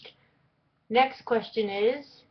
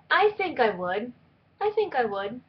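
put-on snobby Valley Girl; 3 semitones higher than usual. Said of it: "I don't know why I said that in that voice".

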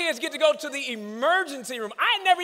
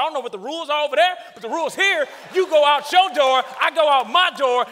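stern dad lecture. Retold or imitated. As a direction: lay down the law to the kid. Dad lectures son on respect.

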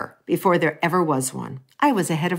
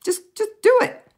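mom agreeing; 3 semitones higher, faster than usual. Retold or imitated. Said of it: "and she said".

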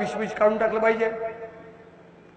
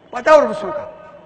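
mock calling out to stop someone; acted urgent warning. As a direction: plead urgently, as a messenger would. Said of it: "मोठ्या मोठ्याने ओरडत आले". (कळकळीने ओरडून अडवणे)

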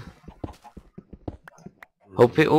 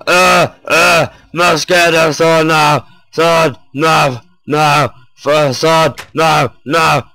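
being chased; 4 semitones higher, 4 dB louder than usual. Real, not acted. Fleeing monsters in game.

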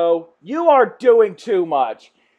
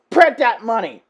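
emphatic call, pitch near usual; excited urging; 2 semitones higher, 4 dB louder than usual. Real, not acted. Fan urging networks to make the show, excited call. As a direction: urge them on firmly.

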